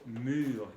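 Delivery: "mur" with fronted rounded u and throat r; French "mur", lips rounded on the vowel; French U in word. Shown as a demonstration. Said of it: "en el ejemplo".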